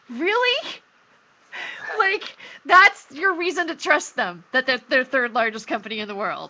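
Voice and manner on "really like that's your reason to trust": high, incredulous rising "Really?"; retold sarcastic disbelief; mock disbelief. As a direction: play it as if you can't believe what you heard. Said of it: "I'm like".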